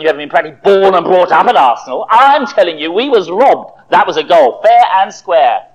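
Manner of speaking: we was robbed, insist it; heated retort. Acted. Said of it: "retorted John".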